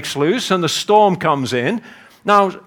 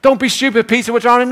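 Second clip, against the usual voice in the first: high, urgent objection; lightly acted panicky retort; protesting crewmate; 5 semitones higher, faster than usual. Disciples bailing out to Peter, high-pitched protest.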